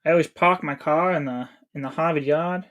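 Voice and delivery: lightly put-on Boston accent, dropped R's. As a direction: joke line in a mild Boston accent. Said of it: "You couldn't tell by my, my Boston accent?".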